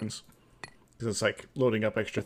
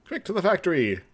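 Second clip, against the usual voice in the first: excited call; 6 semitones higher, 6 dB louder than usual. Real, not acted. Rallying partner to go.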